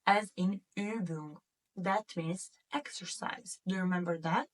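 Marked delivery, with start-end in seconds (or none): 0.1-1.4 Übung with rounded ü, careful and slow; German Übung. Shown as a demonstration. Teacher modelling Übung for the class, slow and clear. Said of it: "this letter will be pronounced as Ü".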